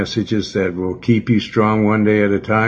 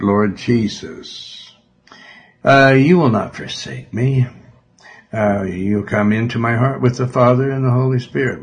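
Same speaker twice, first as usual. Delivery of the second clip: prayer. Real, not acted. Leads a sinner's prayer.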